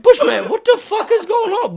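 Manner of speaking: laughing yell. Retold or imitated. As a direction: shout the question while cracking up. Yelling at friend in the truck.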